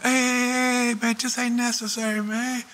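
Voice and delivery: imitating Rick. Rick calming a tense standoff.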